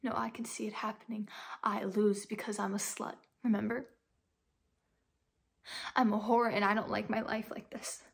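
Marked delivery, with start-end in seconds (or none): 1.6-8.0 anguished outburst. Acted. Despairing outburst about being called slut.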